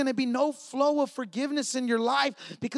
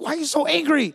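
higher, mildly raised imitation of wife; retold exasperated question; 5 semitones higher, 5 dB louder than usual. Wife to mad husband after the lost toy, retold exasperated question. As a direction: throw the question out, pitched up. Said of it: "And I was so mad, and my wife was like".

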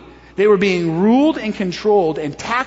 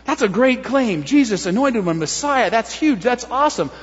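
mildly impressed, with reservation coming; doubtful admiration; 3 semitones higher than usual. Shown as a demonstration. Crowd weighing Jesus's claim, mildly impressed but doubtful. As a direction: grant the claim before questioning it. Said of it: "If it was a doubt statement, it would go something like this".

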